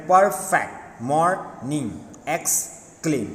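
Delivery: "perfect, morning, exclaim" each broken in half; split into two syllables. Shown as a demonstration. Teacher repeating two-syllable examples, each split by a pause. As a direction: stop mid-word: per... fect, mor... ning, ex... claim. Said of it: "two time we stop in middle".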